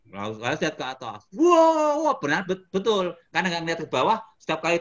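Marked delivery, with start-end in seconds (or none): 1.4-2.0 long, high, loud wail; re-enacted scream. Rider told to look up and yell, long high scream. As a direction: let out a big roller-coaster scream. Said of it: "teriak, Pak".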